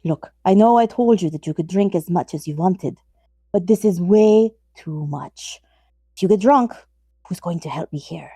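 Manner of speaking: put-on light Eastern European vampire accent; a hint of a stereotypical vampire accent. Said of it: "that was vaguely Eastern European enough".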